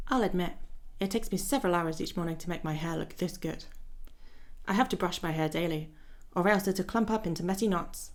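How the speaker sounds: lightly voiced vain gentleman reading his lines; a hint of a fussy dandy, unhurried; Elliot voice. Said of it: "That's my Elliot voice".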